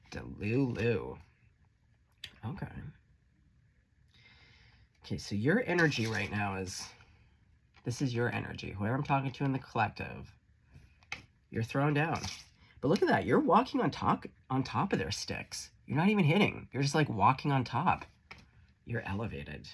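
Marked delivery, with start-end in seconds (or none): 0.1-1.2 drawn-out delulu. Acted. Mocking verdict. 12.8-18.1 thrilled, raised voice cheering the viewer on; excited. Real, not acted. Excited over tarot card.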